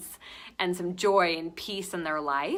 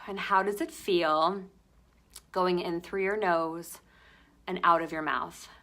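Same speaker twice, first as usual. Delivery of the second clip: gentle meditation pacing with long pauses; guided meditation. Acted. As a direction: lead them into the breath, unhurried.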